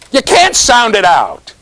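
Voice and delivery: CAN'T punched high in "can't sound it out"; emphatic stress on CAN'T. Real, not acted. Teacher debunking the spelling advice, heavy stress on "can't". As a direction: hit "can't" high, then fall away.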